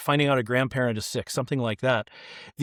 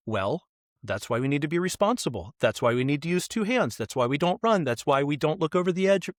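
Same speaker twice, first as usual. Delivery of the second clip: lecturing mom. Retold or imitated. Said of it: "my mom could have said".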